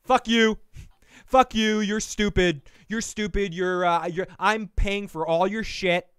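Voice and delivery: imitating a furious Patsy yelling; mock angry outburst. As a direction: imitate her lashing out. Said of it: "Patsy's reaction is to be like".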